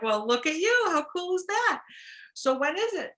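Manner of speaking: high, loud delighted praise. Retold or imitated. Sponsor praises newcomer asked to speak, delighted. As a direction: cheer her on. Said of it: "she's like".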